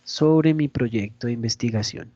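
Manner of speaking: dull opening that sags as it goes; sleep-inducing delivery. Shown as a demonstration. Teacher showing how not to open a presentation, sleepy. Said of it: "ya hasta me dio sueño a mí".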